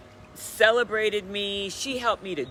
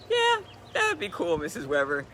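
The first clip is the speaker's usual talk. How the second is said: put-on sheepish kid. Kid self answering counselor.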